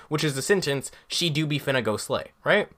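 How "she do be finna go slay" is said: a deliberately off, mocking Black accent, said softly; wrong black accent. Shown as a demonstration. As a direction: toss off a badly faked Black accent. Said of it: "the wrong way to use a black accent".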